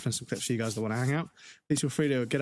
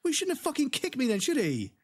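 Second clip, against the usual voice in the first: real anger; 9 semitones higher than usual. Real, not acted. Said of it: "I'm still pissed off about it".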